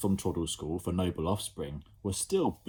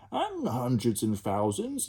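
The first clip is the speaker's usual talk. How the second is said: inquiring; 4 semitones higher than usual. Acted. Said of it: "inquired a third".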